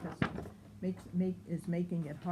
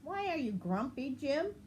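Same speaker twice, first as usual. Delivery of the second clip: higher, quick questioning voice; Lemur asking; 7 semitones higher than usual. Acted. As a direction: ask it briskly and up high. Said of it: "asked Lemur".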